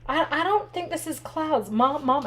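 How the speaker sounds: mild retold alarm on the phone to mom; retold panic. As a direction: call out to mom in mounting panic. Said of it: "and I'm panicking".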